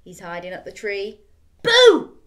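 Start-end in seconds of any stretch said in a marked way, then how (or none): 1.6-2.2 loud, high sudden boo; scary boo. Acted. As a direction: jump out and shout it. Jumping out to scare.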